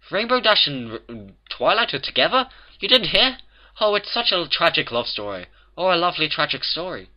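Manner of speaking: high, excited character voice; gushing gossip. A narrator's reading. A baker hears of Twilight's love affair, gushing astonishment. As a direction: go from astonished to swooning over the romance.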